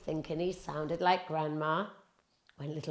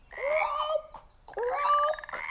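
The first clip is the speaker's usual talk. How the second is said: high, squeaky frog croaks. A narrator's reading. Narrator doing the frogs, high frog croaks.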